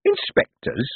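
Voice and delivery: high, drawn-out Inspectors; savoring the word. A narrator's reading. Foreman to Moist, savoring the word. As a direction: roll the word like a candy. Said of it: "turning the word over in his mouth".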